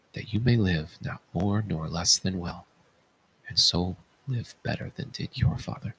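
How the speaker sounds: fading to a quiet, breathy whisper; softening to a whisper. Acted. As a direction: let the blessing die away. Closing blessing to children.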